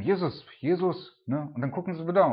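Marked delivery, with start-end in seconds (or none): 0.0-1.2 higher pleading cry, drawn out; loud slow pleading. Retold or imitated. Disciples in the storm begging Jesus, loud slow plea. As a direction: call his name louder and slower, begging. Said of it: "zu bitten".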